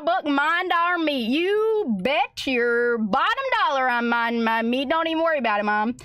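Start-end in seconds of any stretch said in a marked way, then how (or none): none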